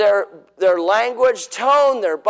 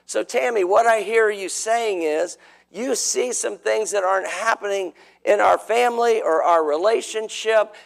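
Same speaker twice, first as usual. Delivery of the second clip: calm validating reply. Shown as a demonstration. Husband calmly reflecting back to his wife, gently. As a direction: patiently repeat her words back to her. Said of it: "You see the difference in the two responses?".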